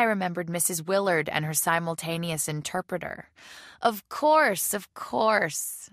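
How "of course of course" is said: high, loud cry of sudden recognition. Acted. Woman suddenly remembers who is calling, crying out. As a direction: exclaim it, much higher and louder. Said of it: "I cried".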